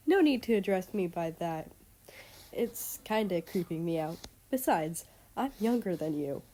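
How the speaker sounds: put-on bubbly girl voice. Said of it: "back to her immediately bubbly tone".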